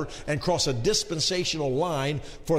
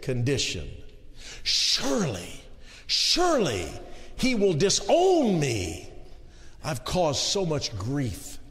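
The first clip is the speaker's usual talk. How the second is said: a hint of a hopeless sinner, dragging; carnal man's despair. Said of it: "this is the carnal man speaking".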